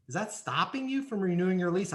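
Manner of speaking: asked gently, with open curiosity; a genuinely puzzled check, not a challenge; curious sincere question. Shown as a demonstration. Leasing agent gently checking the resident's real objection, sincerely curious. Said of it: "throw it out like this".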